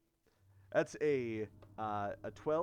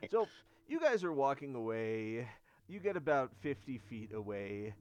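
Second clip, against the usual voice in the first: ordinary talk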